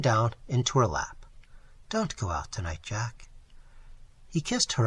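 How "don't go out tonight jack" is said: low, hushed pleading; soft plea. A narrator's reading. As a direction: beg him quietly to stay. Girl pleads with him to stay.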